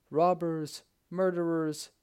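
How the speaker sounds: high, strained accusing cries; far-off voices raising alarm; alarmed cry. A narrator's reading. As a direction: shout robbers at him.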